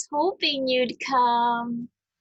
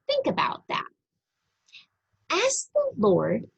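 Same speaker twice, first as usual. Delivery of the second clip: a high whisper to make them think; whispered prompt; 7 semitones higher, faster than usual. Acted. Reader to child, whispering a thought to ponder. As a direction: breathe it as a secret nudge.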